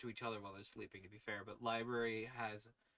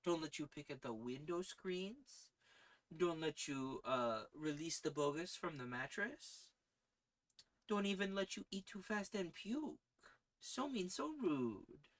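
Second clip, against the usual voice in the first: high, teasing pet talk to cats; pretend-stern cat scolding; 1 mock scolding the cats; 4 semitones higher than usual. Real, not acted. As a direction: playfully tell off the cats in a higher voice.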